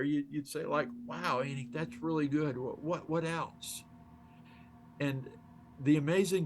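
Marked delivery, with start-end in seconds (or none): 1.1-3.8 softly impressed, inviting more; appreciative inflection. Shown as a demonstration. Coach showing how to draw more out of Anik, appreciative. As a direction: show quiet appreciation, then gently prompt. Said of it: "voice inflection is very important here".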